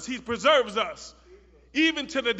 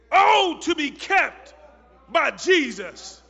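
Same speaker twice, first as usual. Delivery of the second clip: louder, higher, slow and stretched; shouted proclamation; 4 semitones higher, 8 dB louder, slower than usual. Acted. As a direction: cry it out to the congregation. Hymn line proclaimed at climax.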